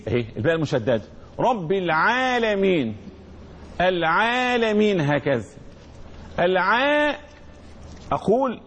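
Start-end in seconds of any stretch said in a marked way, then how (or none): 1.4-5.0 "العالمين" with the long aa after ع held out evenly; natural madd. Shown as a demonstration. Teacher showing the natural lengthening, slow madd. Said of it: "مد الطبيعي". 6.4-7.2 "العاء" with the aa after ع held long; held madd. Shown as a demonstration. Teacher showing students how recitation lengthens, held vowel. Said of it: "كانت قراءته صلى الله عليه وسلم مدا".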